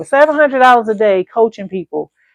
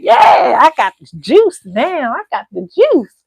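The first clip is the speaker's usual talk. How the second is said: excited; 4 semitones higher, 4 dB louder, slower than usual. Retold or imitated. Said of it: "I was all excited".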